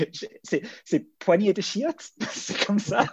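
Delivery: laughing through the words, voice high; chuckling while saying the slang. Real, not acted. Laughs while quoting crude slang.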